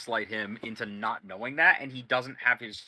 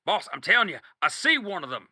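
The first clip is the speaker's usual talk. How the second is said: higher, louder, pressing; insistent; 5 semitones higher, 5 dB louder than usual. Acted. Sniper insisting to his boss, high and urgent. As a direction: insist he saw someone. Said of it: "And he goes".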